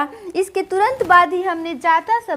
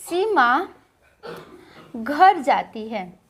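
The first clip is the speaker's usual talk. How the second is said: slow example read; 5 semitones lower, slower than usual. Shown as a demonstration. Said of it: "जैसे हम एक वाक्य लेते हैं".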